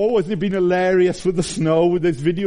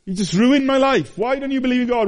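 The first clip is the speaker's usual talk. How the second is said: imitating an unbeliever; 9 semitones higher than usual. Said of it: "they think if there is a God".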